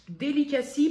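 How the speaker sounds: "delicacy" said with a light English accent, rising at the end. Shown as a demonstration. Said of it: "pardon pour le, l'accent anglais". (accent anglais léger sur « delicacy »)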